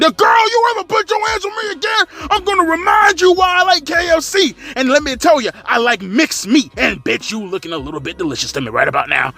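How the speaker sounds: high mock threat; mock tough Willow. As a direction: shout it high as a tough girl.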